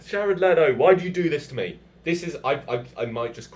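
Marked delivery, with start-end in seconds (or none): 0.1-1.8 loud, high wail of mock despair; theatrical, wounded protest; exasperated plea. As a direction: plead with the one who let you down. Mock plea to absent actor.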